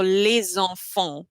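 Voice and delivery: LES ENFANTS run together with a linking Z; flowing French liaison. Shown as a demonstration. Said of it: "like singing".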